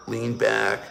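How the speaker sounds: ordinary delivery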